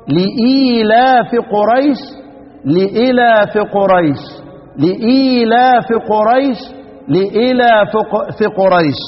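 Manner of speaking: slow melodic tajwid chant; Quran recitation. Shown as a demonstration. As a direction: recite it slowly, letting each لإيلاف ring. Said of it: "كيف تقرأ؟".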